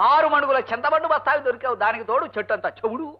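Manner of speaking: soft, muttered grumbling; grumbling to himself. Acted. Husband complains about his hard-of-hearing wife, muttering to himself. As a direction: grumble under your breath. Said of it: "మీలో మీరే కొనుక్కుంటున్నారు".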